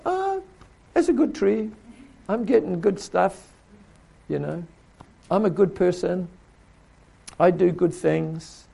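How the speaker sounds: hammed-up smug do-gooder; smug self-satisfied person. Preacher mimicking people who think they're good, mildly mocking. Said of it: "they go".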